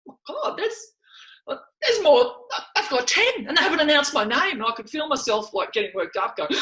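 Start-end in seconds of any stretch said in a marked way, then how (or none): 0.1-4.5 rising mock panic, high and fast; growing dread at the team announcement; retold panic. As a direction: blurt it out as the names run out. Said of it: "I've gone".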